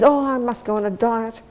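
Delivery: idle sigh of a wish; half-hearted wish. Shown as a demonstration. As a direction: say it like you never mean to do it. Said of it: "You can say for twenty-seven years".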